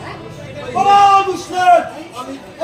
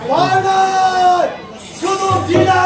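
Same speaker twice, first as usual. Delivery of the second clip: slow defiant shout; much slower than usual. Acted. Warrior defies his enemy.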